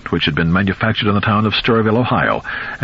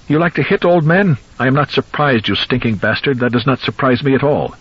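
shrill taunt; 6 semitones higher than usual. Acted. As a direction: gloat shrilly through a grin. Old man taunting, grinning with blood.

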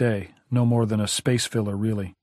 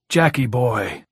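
lightly voiced, glad and a bit louder; genuine pleasure; 6 dB louder, slower than usual. A narrator's reading. Al greets Jack on the phone with genuine pleasure. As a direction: greet an old friend with real pleasure. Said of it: "Genuine pleasure".

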